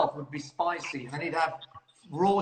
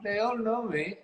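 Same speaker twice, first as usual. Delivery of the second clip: lightly voiced catchphrase, pitched higher; Mister Khan impression; 4 semitones higher than usual. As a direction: echo the character's boast a little higher. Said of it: "I want you to do the impression".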